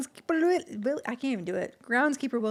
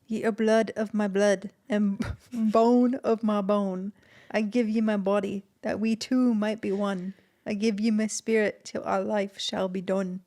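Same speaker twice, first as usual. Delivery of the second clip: put-on Scottish accent; 2 semitones lower, slower than usual. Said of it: "I'm gonna butcher this".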